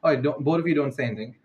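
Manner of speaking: ordinary talk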